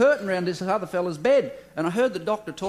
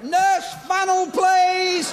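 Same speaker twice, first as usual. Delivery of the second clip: much higher, loud call across the ward; shouted order; 12 semitones higher, 6 dB louder, much slower than usual. Acted. Doctor shouts to the nurse for a funnel, loud call. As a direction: bellow for the nurse.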